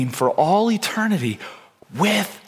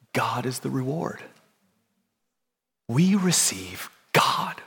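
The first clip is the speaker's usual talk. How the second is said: hushed reverence; 5 dB quieter than usual. Real, not acted. Slow, hushed emphasis.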